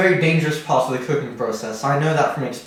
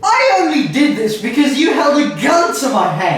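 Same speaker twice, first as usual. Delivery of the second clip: trying not to laugh; 10 semitones higher, 4 dB louder than usual. Real, not acted. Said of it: "I couldn't keep a straight face".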